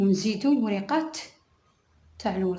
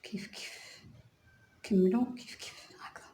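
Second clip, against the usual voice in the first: whispered aside; 4 dB quieter than usual. Real, not acted. Crochet teacher murmuring while working.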